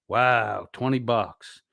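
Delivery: deadpan it like the sum is a joke; dry sarcasm. Acted. Streamer unimpressed by Chili's twenty-dollar offer, dry and flat.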